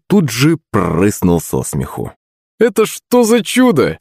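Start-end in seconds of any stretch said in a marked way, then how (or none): 2.6-4.0 high-pitched, incredulous cry; astonished high outburst; amused exclamation. A narrator's reading. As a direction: exclaim high, tickled and amazed. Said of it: "вскрикнул он".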